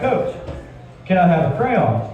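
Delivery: a hint of a whiny kid; lightly voiced middle schooler asking coach; kid's voice. Kid voiced in classroom story.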